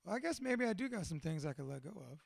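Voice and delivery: soft, low, sheepish concession; quietly softened tough guy; reluctant admission. Retold or imitated. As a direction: drop the voice and grudgingly admit it. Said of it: "He goes".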